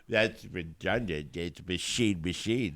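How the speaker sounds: put-on dopey voice mimicking a co-host; mocking stupid voice. Co-host mimicking his nitpicking partner, stupid voice. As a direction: imitate him in a stupid voice. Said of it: "think of your stupid voice going".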